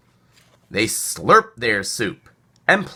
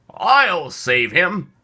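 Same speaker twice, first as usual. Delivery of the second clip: squeak; 6 semitones higher, much slower than usual. Acted. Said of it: "squeaked the squirrel".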